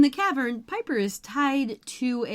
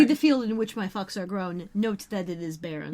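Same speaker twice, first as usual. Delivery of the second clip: deadpan quote; 2 semitones lower than usual. Retold or imitated. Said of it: "Yes, that is the right thing".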